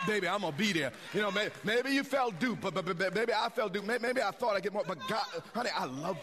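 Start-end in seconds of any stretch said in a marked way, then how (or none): 0.0-3.9 passionate shout. Acted. Husband pleading to wife, shouting.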